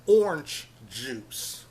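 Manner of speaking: orange squeezed into one syllable, "ornj"; "ornj juice", slowly; own pronunciation of orange. Shown as a demonstration. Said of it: "and I say".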